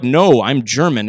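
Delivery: a hint of a matter-of-fact German; dry German author. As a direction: answer dryly as Moltmann. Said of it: "And he's like".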